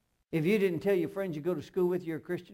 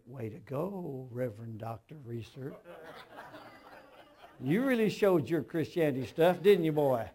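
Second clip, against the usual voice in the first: sarcastic inner voice. Retold or imitated. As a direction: needle yourself like a teasing conscience. Holy Spirit rebukes him sarcastically.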